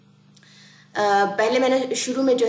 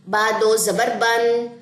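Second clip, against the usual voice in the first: very slow, careful qaida reading; slow spelling out; much slower than usual. Shown as a demonstration. Teacher spells out the word for students, very slow. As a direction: spell it out slowly, syllable by syllable. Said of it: "سب سے پہلے توڑ جوڑ".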